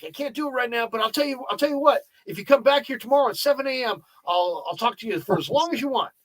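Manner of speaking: imitating a very high-pitched voice; Tony Gwynn. Busy ballplayer at his locker putting off a reporter, high-pitched impression. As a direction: mimic him way up high. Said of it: "really high-pitched".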